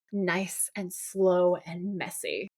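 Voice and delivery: drawn-out threat. Retold or imitated. Villain threatening the captive brothers, slowly drawn out. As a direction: stretch out each word of the threat.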